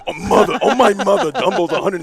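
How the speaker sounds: light, laughing put-on Irish accent; mock Irish accent. Retelling a card-shop friend's price claim in a mock Irish accent. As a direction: tease him in a jokey Irish accent. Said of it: "Why do you have this accent?".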